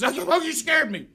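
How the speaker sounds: high breathy retold "you scared me"; imitating a frightened neighbor. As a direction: play the shaken neighbor getting his breath back.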